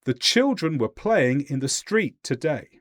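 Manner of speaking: "children", "playing", "street" and "day" stressed at equal intervals; evenly timed beats on "children", "playing", "street", "today"; English stress rhythm. Shown as a demonstration. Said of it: "Listen to how I say it".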